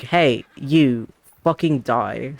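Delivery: loud, rough threat from a rider; mock threatening yell. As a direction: bark it like a thug on horseback. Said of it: "and they're like".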